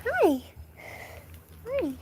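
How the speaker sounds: high cooing hi. Real, not acted. Greeting the goat.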